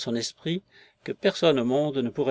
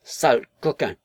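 shouting while half crying; a weepy, angry yell; tearful shout; 5 dB louder than usual. A narrator's reading. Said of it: "cria en larmoyant".

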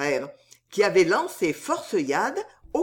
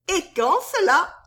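much higher maid's voice; questioning soubrette; 11 semitones higher, 4 dB louder than usual. A narrator's reading. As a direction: ask him in a high feminine voice. Soubrette questions her suitor. (question de soubrette, voix aiguë)

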